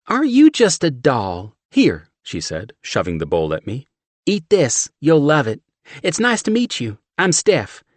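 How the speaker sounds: high, loud brassy Southern woman; thick Southern accent. A narrator's reading. Steph shoving chili at John, thick Southern accent. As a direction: push the chili on him, Southern.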